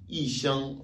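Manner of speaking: "i shang" with "i" falling sharply from high; fourth-tone yi. Shown as a demonstration. Teacher shows learners yi before first tone, falling "i" in "i shang". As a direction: say "i shang", dropping the tone on "i". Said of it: "le i devient automatiquement quatrième ton".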